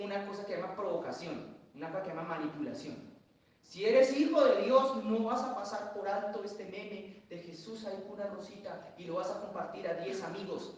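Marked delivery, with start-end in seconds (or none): 3.6-7.2 loud, slow, baiting challenge; mock taunt. Preacher mimics a baiting meme, loud and slow. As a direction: dare them, drawing it out.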